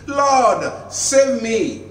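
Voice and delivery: loud, high cry for rescue; desperate cry. A narrator's reading. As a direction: call out like a sinking man. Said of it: "he cried".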